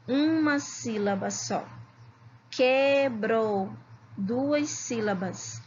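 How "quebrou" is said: "Quebrou" split into que, brou; slow syllable by syllable. Shown as a demonstration. Teacher checking syllable counts with pupils, "Quebrou" slowly split. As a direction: say "Quebrou" as two drawn-out syllables. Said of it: "Vamos falar todas devagarinho".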